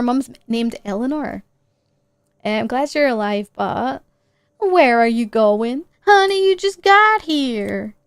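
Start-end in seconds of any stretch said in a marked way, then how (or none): 2.4-7.9 voicing Mom. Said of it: "I can't do accents".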